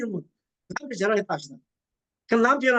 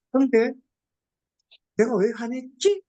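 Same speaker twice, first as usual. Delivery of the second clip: self-questioning demo; 3 semitones higher than usual. Shown as a demonstration. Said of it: "이렇게 물어보는 거예요".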